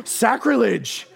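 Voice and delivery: drawn-out mock-scandalized word; slow, hammed-up indignation; mock outrage. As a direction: protest like an offended fan. Mimics shocked audience, first take.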